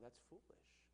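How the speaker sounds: whispered rebuke; hushed rebuke. Real, not acted. Blunt rebuke.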